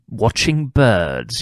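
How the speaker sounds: slow, drawn-out mock-posh "Watching birds"; lightly imitating an upper-class gent, unhurried. Billy fobbing off the policeman, slow mock-posh voice. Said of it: "if you spoke in a posh voice".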